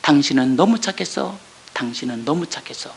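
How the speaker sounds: soft, low, gentle reassurance; tender reassurance. Retold or imitated. Husband quietly comforting his wife, soft tender reassurance. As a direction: say it softly and tenderly. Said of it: "남편 입이 뭐라고 증거해".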